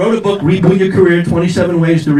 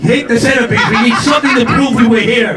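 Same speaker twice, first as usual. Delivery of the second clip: mock urgency; 4 semitones higher than usual. Acted husband urging wife to grab things.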